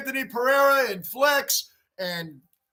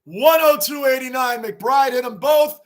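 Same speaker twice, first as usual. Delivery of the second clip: louder live game call; live play-by-play; 2 semitones higher, 5 dB louder than usual. Real, not acted. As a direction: call the score like a play-by-play announcer.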